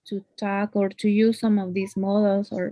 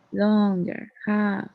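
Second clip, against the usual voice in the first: "Longer" and "have" both drawn out; lengthened stress; much slower than usual. Shown as a demonstration. Teacher demonstrating longer stressed words, both held out. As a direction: stretch "Longer", then hold "have". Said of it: "We make it longer and strong".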